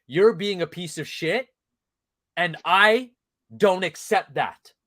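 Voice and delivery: firm paraphrase of a father, with weighty pauses; disappointed, not mad. Retold or imitated. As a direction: lay down the line without getting upset. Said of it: "he didn't get mad. He didn't get upset".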